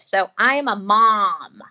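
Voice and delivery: "mom" drawn out slowly with an O vowel; slow, deliberate "mom" with an open ah; American mom. Shown as a demonstration. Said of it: "with an O".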